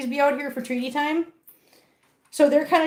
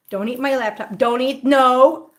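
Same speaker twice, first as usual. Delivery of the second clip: firm scolding; 5 dB louder than usual. Real, not acted. Scolding pet off laptop.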